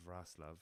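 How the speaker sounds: Wrocław as "VRAS-lav"; learned Polish pronunciation. Shown as a demonstration. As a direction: begin Wrocław with VR, S in the middle. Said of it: "that's how you, how you say".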